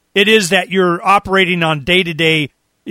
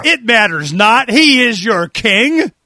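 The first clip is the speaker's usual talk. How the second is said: slow theatrical villain menace; 3 semitones higher, slower than usual. Retold or imitated. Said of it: "guess who I think of".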